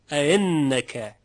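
اعنک slow, second hamza softened into an i glide; slow recitation of اعنک without a hard catch; eased second hamza. Shown as a demonstration. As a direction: draw out اعنک with a loose second onset. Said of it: "موقع تسهیل همزهٔ دوم".

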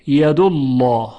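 "ید الله" with a heavy, dark l in "الله"; full, rounded lam in "ید الله"; thick lam. Shown as a demonstration. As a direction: recite "ید الله" as "yadullawh". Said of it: "لام الله تفخیم بشه".

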